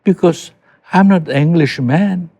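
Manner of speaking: put-on slow, French-accented English; a light French-accented English, slow and easy. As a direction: mimic a Frenchman speaking English, unashamed. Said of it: "karena dia orang Prancis".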